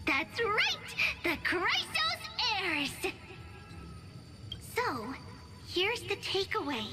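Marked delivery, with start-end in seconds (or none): 0.0-3.1 higher, triumphant storyteller's announcement; rousing reveal. Acted. Storyteller revealing the band of heroes' name, rousing.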